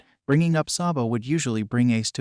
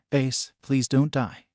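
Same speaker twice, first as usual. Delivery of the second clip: begging; slower than usual. Acted. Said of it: "his eyes begging Ace".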